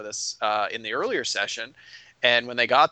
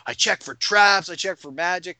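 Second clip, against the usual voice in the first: raised, drawn-out showy announcement; making a huge show; 4 semitones higher, 3 dB louder than usual. Retold or imitated. Player making a huge show of checking for traps, showy. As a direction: announce it with exaggerated ceremony. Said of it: "made a huge show about".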